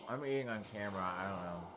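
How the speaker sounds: talking while chewing; mouth full. Real, not acted. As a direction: say it through a mouthful. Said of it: "I talk with my mouth full".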